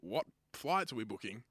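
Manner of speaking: usual speaking voice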